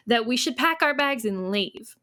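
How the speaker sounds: hint of a Southern accent; slightly Southern accent. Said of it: "I'm trying to say it slightly Southern".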